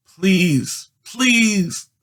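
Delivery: put-on high, pleading girl's voice, falling; begging. A narrator's reading. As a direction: beg desperately as she shakes the dice. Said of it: "Judy begged".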